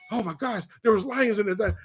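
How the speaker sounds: mock panic. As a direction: play a rattled soldier, half-hearted. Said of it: "commo guy freaks out".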